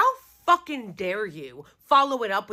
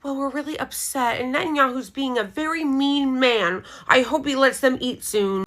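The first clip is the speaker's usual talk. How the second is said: sarcastic mock politician. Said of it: "reading off the same script".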